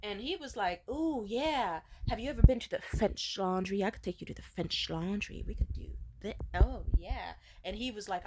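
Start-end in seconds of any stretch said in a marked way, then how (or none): 0.9-7.3 mock smug date. Imitating Alex boasting.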